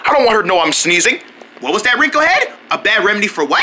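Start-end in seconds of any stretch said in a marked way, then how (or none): 1.6-3.6 mom voice. Acted. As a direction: play the mother checking in. Mom character calling.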